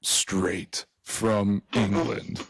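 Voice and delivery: slow, drawn-out attempt at Scottish; botched Scottish accent, words stretched out. Intro for the huddle tape, attempted Scottish accent. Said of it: "intro with my Scottish accent".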